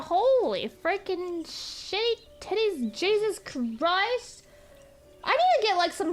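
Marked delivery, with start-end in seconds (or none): 0.0-4.4 slow drawn-out swearing; slow stunned cursing. Real, not acted. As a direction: let it sink in slowly. Reacting to a donation.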